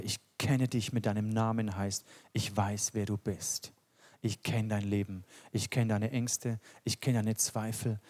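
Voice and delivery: Jesus reassuring the grieving woman, softly; tender Jesus. Retold or imitated. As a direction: speak it as Jesus comforting gently. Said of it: "sagt Jesus".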